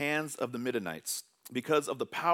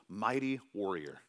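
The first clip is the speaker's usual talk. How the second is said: slow, weighty words from God; God to Gideon, declaring slowly and solemnly; solemn divine declaration; 3 semitones lower, 3 dB quieter, slower than usual. Acted. God calling Gideon, slow and weighty. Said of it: "He says".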